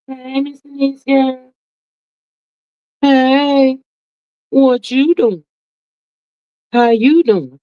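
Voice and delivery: bright, high-pitched hello to a friend; excited greeting. Real, not acted. Greeting a viewer on live stream.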